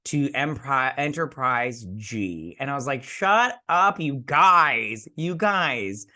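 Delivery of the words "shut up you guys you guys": high, loud excited "shut up"; fangirl squeal. Retold or imitated. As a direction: gush like a delighted fan who can't believe it. Retold fangirl reaction to ship name.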